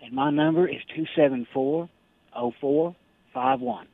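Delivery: usual speaking voice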